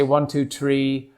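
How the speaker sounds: slow Irish counting; Irish accent. Shown as a demonstration. Counting to get into his Irish accent, Irish accent. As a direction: count slowly with an Irish lilt. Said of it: "get into my Irish accent, I'll just say".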